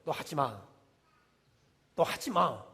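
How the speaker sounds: low, hushed, resolute warning; firm command. Acted. God warning complainers to stop, acted firm low command. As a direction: give a grave, restrained order. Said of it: "단호하게 말하는 거예요".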